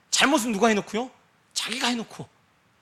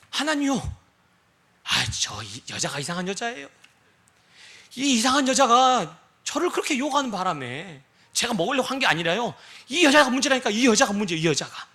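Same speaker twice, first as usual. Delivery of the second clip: Adam whining, pointing at the woman; lightly voiced complaint, pushing blame away; mock blaming excuse. Adam excusing himself to God, a mock whine. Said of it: "여자 핑계 댔잖아요".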